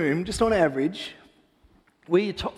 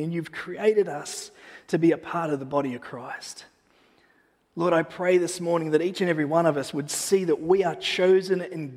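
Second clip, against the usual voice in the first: prayer. Acted. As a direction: pray over the congregation gently. Pastor leads opening prayer.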